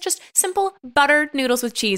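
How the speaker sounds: lightly put-on perky presenter; cooking show host. Host reassures nervous producer and pitches easy noodles, mock-chirpy. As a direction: sell the recipe with lilting encouragement.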